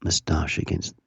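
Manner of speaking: tongue-in-cheek ASMR for listeners; mock ASMR. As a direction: rub the beard for the mic. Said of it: "This is for all you A S M R perverts".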